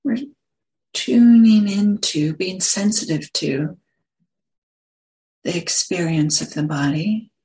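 unhurried phrases with long pauses between them; guided meditation. Acted. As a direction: guide listeners gently into the body, leaving space after each phrase.

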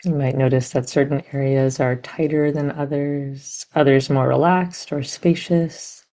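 gentle, unhurried meditation guidance with long pauses; guided meditation. Real, not acted. Teacher guiding meditators to sense body and heart, measured meditation voice. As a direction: guide listeners inward, leaving room between phrases.

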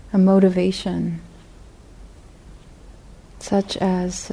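unhurried guided reflection, long pauses between phrases; guided meditation. Real, not acted. Teacher guiding meditators to feel their intention to sit, guided meditation. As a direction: lead them gently inward, leaving space after each phrase.

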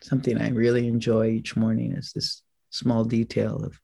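measured instructions with long pauses between; guided meditation. Acted. Teacher settling the group into an upright sitting posture, guided meditation. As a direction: guide the sitters unhurriedly, leaving room to follow.

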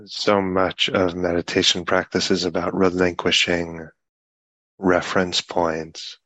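unhurried meditation guidance with long pauses between phrases; guided meditation. Real, not acted. Teacher guiding a group sitting in meditation, unhurried guided meditation. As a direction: speak in measured phrases, leaving long silences.

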